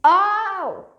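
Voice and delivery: high loud delighted oh; surprised gasp. Real, not acted. Big bubble forms.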